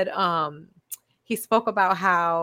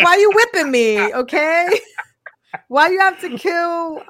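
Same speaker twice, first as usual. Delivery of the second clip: high mock whine, pleading; whiny victim voice; 10 semitones higher, 6 dB louder than usual. Friend mocking the Bible, in a high whiny plea. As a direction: play the whipped one, high and pitiful.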